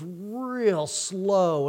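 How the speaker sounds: stretched out very slowly; drawn out. Retold or imitated. Describing lava creeping along, drawn out slowly. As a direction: drag the words like creeping lava.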